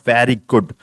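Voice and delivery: very good with a falling tune; flat, falling very good. Shown as a demonstration. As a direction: let very good drop flatly at the end. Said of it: "देखो मैंने tone बदल दिया ना".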